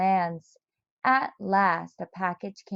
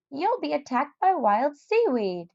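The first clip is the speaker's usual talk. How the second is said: put-on high, doom-laden old man's warning; Mister Barley Bean warning; 6 semitones higher than usual. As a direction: scare him off the trip. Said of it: "said old Mister Barley Bean".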